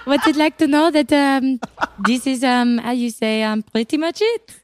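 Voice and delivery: put-on light French accent, laughing through it; mock French accent. A French actor voiced for a friend, light French accent. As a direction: play a French actor, only a hint of French accent. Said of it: "Your French accent is so good".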